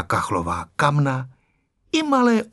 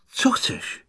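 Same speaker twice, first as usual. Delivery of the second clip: whispered aside; 5 dB quieter than usual. A narrator's reading.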